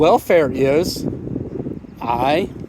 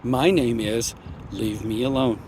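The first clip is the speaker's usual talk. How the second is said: slurring words; 6 semitones lower, 7 dB quieter than usual. Real, not acted. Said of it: "And you're slurring your words".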